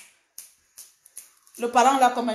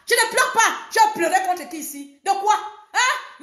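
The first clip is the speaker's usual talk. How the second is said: indignant denial; 8 semitones higher than usual. Real, not acted. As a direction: challenge them, rising to a squeal. Denies crying, indignant outburst.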